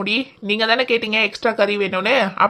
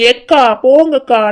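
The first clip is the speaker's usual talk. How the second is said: drawn-out, louder sulky whine; whiny protest; 3 semitones higher, 5 dB louder than usual. Acted. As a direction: whine back at her, slow and pouty. Teased about crying over onions. (சிணுங்கலான, இழுத்த எதிர்ப்பு)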